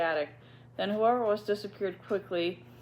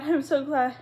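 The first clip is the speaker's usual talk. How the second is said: put-on lightly raised girlish voice, fretting; young girl worried about the rat, lightly voiced; 3 semitones higher than usual. Ermengarde voiced.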